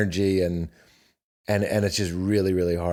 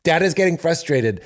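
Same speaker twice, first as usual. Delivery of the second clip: firm but mild; 4 semitones higher than usual. Shown as a demonstration. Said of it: "that slight drop is when I go".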